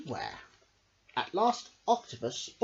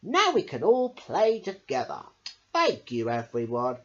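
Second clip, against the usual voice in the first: happy voice; 6 dB louder than usual. Acted. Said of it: "said Pufferfish".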